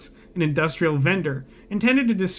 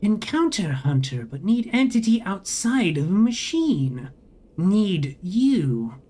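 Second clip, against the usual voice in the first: slow, whirring robotic drone; whining machine voice; 2 semitones higher, slower than usual. A narrator's reading. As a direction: speak like a glitching vending machine.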